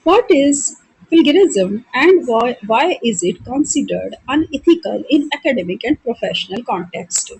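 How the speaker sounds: reading the question out slowly and deliberately; slow, measured question read; slow exam dictation. Acted. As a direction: dictate each word for students to copy. Reads exam question aloud slowly.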